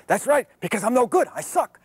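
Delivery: hammed-up Rodney whining he's no good; imitating Rodney. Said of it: "He says".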